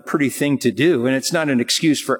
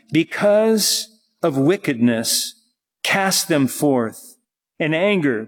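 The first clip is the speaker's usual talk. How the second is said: scripture reading. Real, not acted. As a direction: read the verse out solemnly, phrase by phrase. Reads the psalm aloud.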